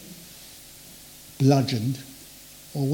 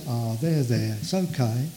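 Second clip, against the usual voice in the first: soothing coddling; 3 semitones lower than usual. Retold or imitated. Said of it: "The Lord doesn't talk like that".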